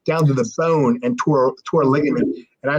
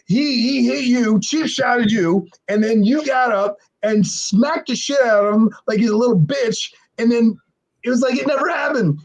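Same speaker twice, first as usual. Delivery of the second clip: much higher, drawn-out hysterical amazement; Bradshaw laughing in disbelief; 10 semitones higher, slower than usual. Retold or imitated. Bradshaw reliving the punch to Tank, imitated laughing disbelief. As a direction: howl it slowly, as if cracking up at what you saw. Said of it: "Bradshaw's laughing like".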